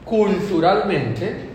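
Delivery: slow, lightly put-on voice making lame excuses. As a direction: justify yourself sheepishly, dragging it out. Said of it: "Puedo decir". (excusa floja, lenta y ligeramente actuada)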